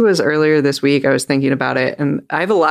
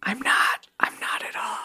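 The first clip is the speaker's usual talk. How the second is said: very soft, near-voiceless whisper; whispered retraction; 8 semitones higher, 9 dB quieter than usual. Real, not acted. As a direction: take it back under your breath. Backs off the Disney joke, whispering.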